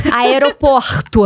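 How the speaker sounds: "Aeroporto" slowed, with a throaty carioca r, "aeropoxtu"; "Aeroporto" drawn out the Rio way, r like an h; "Aeroporto" com sotaque carioca, r arranhado; carioca accent. Retold or imitated. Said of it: "Adoro imitar sotaque".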